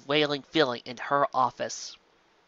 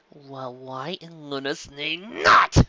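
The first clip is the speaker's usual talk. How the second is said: exasperated question; much slower than usual. Acted. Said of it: "Sparkler asked".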